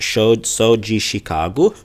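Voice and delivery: slow, careful "sou de Chicago" with "de" as "jee"; slow teaching read of "sou de"; Portuguese pronunciation. Shown as a demonstration. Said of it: "D is pronounced, uh, G".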